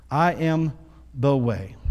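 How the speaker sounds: "I am" then a pause, "the way" pressed down; emphatic with pauses. Acted. Pastor repeating Jesus's words for the church, emphatic and measured. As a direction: split it, let each part hit.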